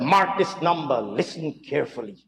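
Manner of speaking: mock-solemn, trailing off quietly; mock gravitas. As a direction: imitate a dramatic hushed warning. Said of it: "feigned gravitas".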